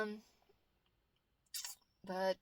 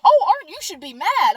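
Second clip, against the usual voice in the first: higher, louder mock of Mom; imitating Mom; 6 semitones higher, 8 dB louder than usual. Daughter retelling how Mom urged her to be angry. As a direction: push her to get angry, lightly voiced. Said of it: "And Mom's like".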